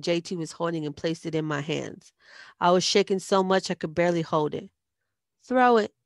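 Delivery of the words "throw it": loud, firm order with level tune; commanding. A narrator's reading. Bully ordering a girl to throw an egg, firm loud command. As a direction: give it as a direct command. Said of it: "commanded Red".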